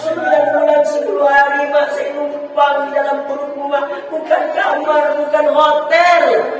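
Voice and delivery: high, pleading show of remorse; acted tearful plea. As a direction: plead as if close to tears. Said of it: "Cobalah nangis".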